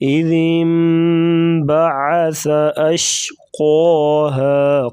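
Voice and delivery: انبعث with ن turned into م; nasal m-sound in انبعث; iqlab nasal. Shown as a demonstration. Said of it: "یہاں پر اقلاب ہو رہا ہے".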